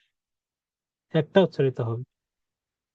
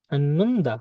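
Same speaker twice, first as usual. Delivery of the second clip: slow model; much slower than usual. Shown as a demonstration. Teacher models word slowly, then normally.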